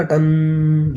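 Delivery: a slow, drawn-out "टन" like a temple bell; bell ring imitation. Shown as a demonstration. Teacher mimics a temple bell ringing to explain dhvani, drawn out. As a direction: let "टन" ring out long like a bell's hum. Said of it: "आपने घंटा देखा होगा".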